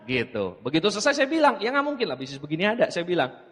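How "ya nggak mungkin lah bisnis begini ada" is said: fast and softer, half-hearted protest; timid, scared. Retold or imitated. Speaker to his intimidating brother, muttering a scared objection. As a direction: blurt it out nervously, hoping not to be heard. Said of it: "sambil takut-takut gitu ngomongnya".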